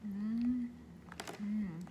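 humming while chewing; closed-mouth mm sounds; mouth full chewing. Real, not acted. Seen 2: Lips closed and moving after a bite from the salad bowl.

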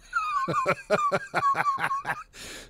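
long high-pitched laughing fit. Real, not acted. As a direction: crack up at your own joke. Cracks up at own villain bit.

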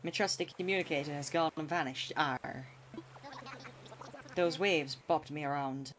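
a light put-on pirate accent, close to his own voice. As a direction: lightly play a hammed-up pirate captain with a pirate accent. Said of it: "I can't do that accent".

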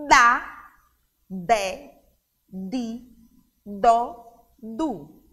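forceful D syllables, each on its own; D intenso. Shown as a demonstration. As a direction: say "Da, dé, di, dó, du" with a firm, voiced D. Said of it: "ela é mais intensa". (sílabas com D forte e intenso)

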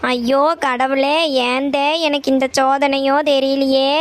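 slow wailing lament to God. Acted. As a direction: drag it out like a despairing mother. Mother laments daughter's refusal. (மெதுவான புலம்பல்)

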